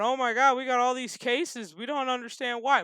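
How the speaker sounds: imitating panicked Iowans, half-hearted; mock freaking out. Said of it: "are all freaking out going".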